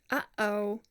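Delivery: "uh-oh" with a closed throat between the vowels; glottal uh-oh. Shown as a demonstration. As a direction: say "uh-oh" with a glottal catch in the middle. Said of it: "think of the word".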